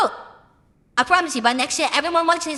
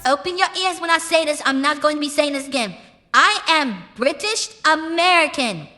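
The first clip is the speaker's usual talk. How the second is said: raised, deliberate declaration; emphatic announcement; 3 semitones higher than usual. Real, not acted. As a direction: spell it out once for everyone, pitched up. Emphatic announcement to doubting listeners.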